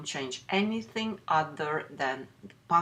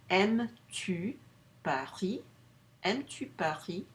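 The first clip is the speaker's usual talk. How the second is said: "Aimes-tu Paris?" rising at the end; inversion question; 3 semitones higher than usual. Shown as a demonstration. Teacher models the inverted question. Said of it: "our simple sentence will end up being".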